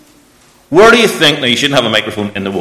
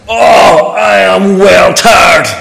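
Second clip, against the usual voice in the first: put-on little boy voice; 8 semitones higher, 6 dB louder, much slower than usual. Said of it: "He was saying".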